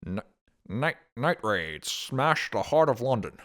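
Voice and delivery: vintage newsreel headline voice; 1940s news voice. Shown as a demonstration. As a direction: read it like a wartime radio bulletin. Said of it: "in a nasally nineteen forties news voice".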